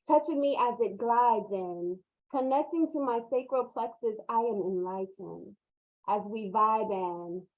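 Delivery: measured, rhythmic poetry recital, lines set apart by pauses; spoken-word love poem. Acted. Poet shares a self-love poem at a book release, spoken-word recital. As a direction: recite it as a declaration of love, leaning on key words.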